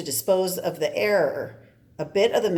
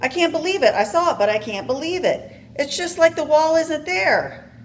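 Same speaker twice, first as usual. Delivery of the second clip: higher, louder disbelief; stunned disbelief; 10 semitones higher, 4 dB louder than usual. Acted. Character watching someone pass through a wall, stunned and loud. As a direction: gasp it out in shock. Shocked at walking through walls.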